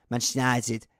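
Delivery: Manchester United clipped into one fast blur, mostly lost; squashed into one syllable. Shown as a demonstration. Host mocking Neville's speed, squashed fast. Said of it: "He can do it in one syllable".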